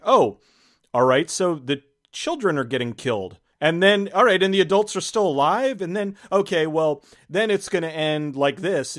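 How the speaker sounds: mock excited viewer thinking aloud; imagined reaction. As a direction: voice your own guesses mid-movie, up high. Mock inner voice while watching.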